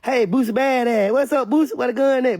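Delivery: a hint of a mocking cop; imitating a cop. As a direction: greet him like a sarcastic officer. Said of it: "police walked up on him".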